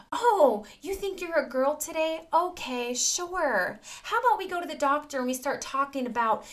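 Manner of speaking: indulgent parent. Acted. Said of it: "letting them think that".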